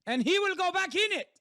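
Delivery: silly clown. Pretend. Shouting as possessive mom.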